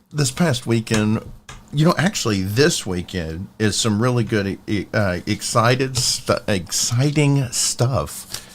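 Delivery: stumbling and restarting over the words; tongue-tied. Real, not acted. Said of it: "I'm still tongue-tied".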